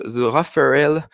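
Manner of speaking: The Raphaël said with an English accent; drawn-out English-accented The Raphaël. Real, not acted. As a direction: put on English pronunciation for The Raphaël. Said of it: "mon accent anglais à chaque fois".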